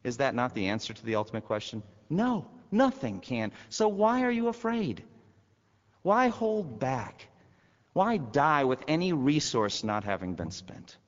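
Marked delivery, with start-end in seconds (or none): 2.1-11.0 high, slow, pleading challenge; preacher challenging the fearful; rousing preaching. Acted. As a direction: call them out, slowly and high.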